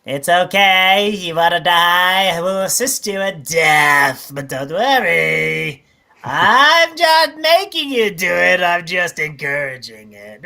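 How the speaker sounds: lightly voiced creepy doctor coaxing gently; a hint of a sinister Doctor Kevorkian. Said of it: "That's a creepy representation".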